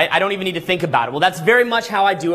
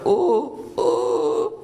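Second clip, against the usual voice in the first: mock cold shiver; 4 semitones higher than usual. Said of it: "they're like".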